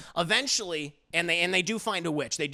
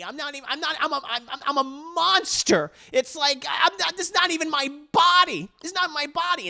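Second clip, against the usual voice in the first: mock sobbing; 11 semitones higher, 4 dB louder than usual. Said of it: "starts bawling".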